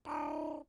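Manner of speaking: drawn-out "bow" noise; imitated sound effect. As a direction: voice a sound effect with your mouth. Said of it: "sound effect".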